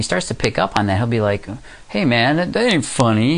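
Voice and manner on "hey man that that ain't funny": indignant. Retold or imitated. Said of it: "he gets all indignant".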